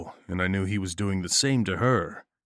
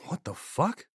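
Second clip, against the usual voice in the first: surprised; 9 semitones higher, 5 dB quieter than usual. A narrator's reading. Key slips, shock.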